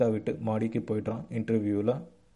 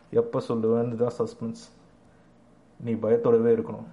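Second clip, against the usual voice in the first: menacing tease; 4 dB louder than usual. Acted. Interviewer taunts and threatens Hari.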